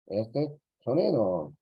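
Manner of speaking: slow, set apart before the sound; the hard sound. Shown as a demonstration. Teacher introduces a sound hard for Spanish speakers, slowed. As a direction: lead in slowly to the tricky sound. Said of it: "otro que es difícil".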